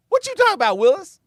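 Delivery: put-on very high, loud, incredulous kid-style squawk; sitcom catchphrase impression. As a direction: squeal it like a TV catchphrase. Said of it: "Is that where Different Strokes got that quote?".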